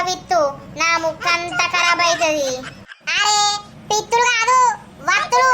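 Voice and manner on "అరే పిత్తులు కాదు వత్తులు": shouted correction. Acted. Correcting deaf woman loudly.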